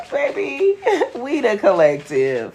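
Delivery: high cackle breaking into the words; laughing. Real, not acted. Reader correcting a viewer, laughing out loud. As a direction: laugh through it, then land the line. Mocking the collective claim, laughing.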